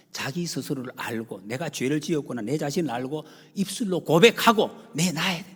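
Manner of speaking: ordinary talk, nothing marked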